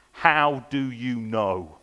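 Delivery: slow, weighty how do you know; drawn out, each word "how do you know" spaced and weighed; slow question. Shown as a demonstration. Preacher posing the question slowly to the congregation. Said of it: "So next question".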